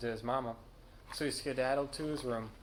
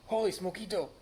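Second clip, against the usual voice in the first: loud, high-pitched cry of amazement; astonished outburst; exclaiming; 7 semitones higher, 5 dB louder than usual. A narrator's reading. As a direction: exclaim it with a big jump in pitch. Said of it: "exclaimed Skippy John Jones".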